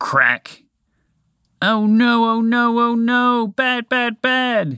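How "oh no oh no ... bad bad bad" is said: long, stretched yell, pitched way up. The moose, as his antler cracks off, yelling. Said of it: "Montgomery the Moose yelled".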